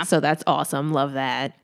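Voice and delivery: deadpan sarcasm; sarcastic. Real, not acted. Podcast host reacting to a father's vile order, dryly sarcastic. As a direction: say the approval so it clearly means the opposite. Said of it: "That was sarcastic".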